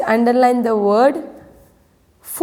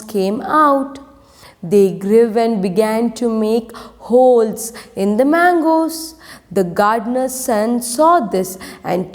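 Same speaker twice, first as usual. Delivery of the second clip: steady storybook reading for the class; story narration. A narrator's reading. Teacher reading a story aloud to her pupils, steady narration. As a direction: read the tale clearly to students.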